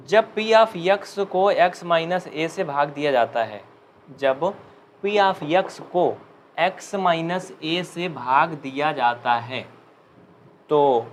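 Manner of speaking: slow, word by word, for students to write; slow dictation. Shown as a demonstration. Teacher dictating the theorem to students, slow and clear. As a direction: dictate each phrase slowly and clearly. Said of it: "आराम आराम से बोलूँगा".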